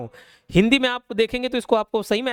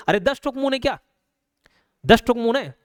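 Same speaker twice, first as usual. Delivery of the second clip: mock disbelief; 4 semitones higher than usual. Shown as a demonstration. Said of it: "teacher's mock disbelief".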